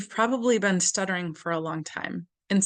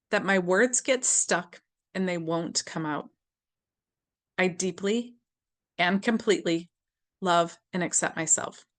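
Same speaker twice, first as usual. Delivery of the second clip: tapping affirmation. Shown as a demonstration. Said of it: "you just have to copy me".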